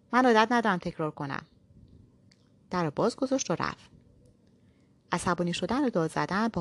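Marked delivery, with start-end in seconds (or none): 0.1-1.5 raised, higher voice, insisting; shouted. Acted. Impatient man shouting at the visitor at his door. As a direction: bark it out, not repeating himself.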